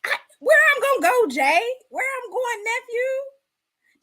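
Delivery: high, fast, frantic joking; mock panic. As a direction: pretend scared dash. Mock-panicked asking where to go.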